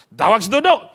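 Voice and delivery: ordinary delivery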